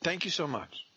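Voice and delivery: high, sugary thank-you; grateful intern. Retold or imitated. Intern thanking the homeowner, high and sweet. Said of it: "he says".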